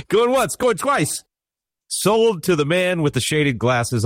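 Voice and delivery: high, slow mock auction call, laughing; auctioneer voice. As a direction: play the auctioneer closing a sale. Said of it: "You sound like an auctioneer".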